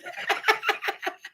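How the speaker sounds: high giggle at her own goof; laughing at herself. Real, not acted. Host to viewers after muting herself, high giggle. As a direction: burst into a high laugh at yourself.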